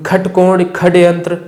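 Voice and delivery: खटकोण and खड्यंत्र with kh for ष; mock the kh mispronunciation of षटकोण, षड्यंत्र; imitating misreading. Shown as a demonstration. Teacher imitates people who misread षटकोण as खटकोण. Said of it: "ऐसा करके भी पढ़ते हैं".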